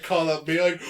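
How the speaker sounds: usual speaking voice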